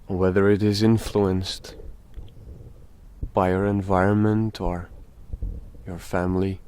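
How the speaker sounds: slow meditation talk with very long pauses; speaking slowly. Real, not acted. Guide tells dear friends about guilt, slow and meditative. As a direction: let each phrase hang in silence before the next. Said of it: "we are speaking rather slowly".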